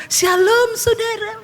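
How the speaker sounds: high, sing-out mock pastor greeting; preacher's greeting. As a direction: imitate a pastor greeting the congregation. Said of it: "Pendeta yang selama ini ngomong".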